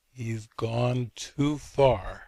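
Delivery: very slow, drawn-out grievance; distraught. Retold or imitated. Upset friend accusing Jesus, slow and distraught. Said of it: "she was very distraught".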